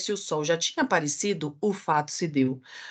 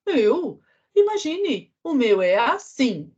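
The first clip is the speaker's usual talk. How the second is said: pig voice; 5 semitones higher, slower than usual. Acted. Porco responde.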